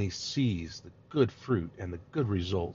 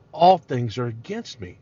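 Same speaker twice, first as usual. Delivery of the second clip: Jacob's false cry; 3 semitones higher, 6 dB louder than usual. Retold or imitated. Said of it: "That isn't true, Jacob".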